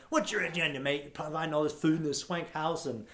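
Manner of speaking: imitated suspicious guest in a mildly angry British voice. First-time guest questioning the free event's motives, mildly angry British voice. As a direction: challenge them in a lightly irritated British accent. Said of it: "I love your angry British voice".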